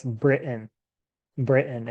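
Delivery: "Britain" said as BRIT-n, the T swallowed into a catch; "Britain" with a glottal stop, no T sound; Britain with a silent T. Shown as a demonstration. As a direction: drop the T in "Britain" and leave a small gap before the n. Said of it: "it sounds like this".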